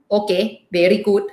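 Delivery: amateur imitation of an Indian accent; terrible Indian accent. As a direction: put on a light, clumsy Indian accent. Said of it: "sorry for my terrible Indian accent".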